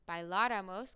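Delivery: bailáramos with the stress on LÁ, just before ramos; bailáramos, accent landing clearly on the third-last syllable. Shown as a demonstration. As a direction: punch the LÁ in bailáramos. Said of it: "con acento".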